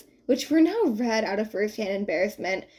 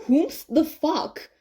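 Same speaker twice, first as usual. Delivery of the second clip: groggy grumble; 6 semitones higher, much slower than usual. A narrator's reading. Repeated groggy question.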